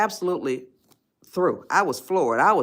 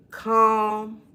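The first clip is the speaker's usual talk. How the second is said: said calmly; 3 semitones higher than usual. Shown as a demonstration. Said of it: "So remember this".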